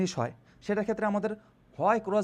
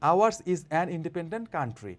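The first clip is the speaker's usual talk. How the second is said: slow model reading; 4 dB louder, much slower than usual. Shown as a demonstration. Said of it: "তারপর".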